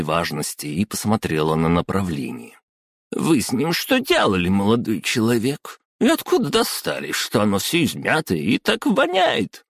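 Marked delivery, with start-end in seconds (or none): 3.1-9.6 high squeaky angry scolding; angry snort. Acted. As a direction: snap at him with disgust, squeaky. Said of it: "Зло фыркнула она".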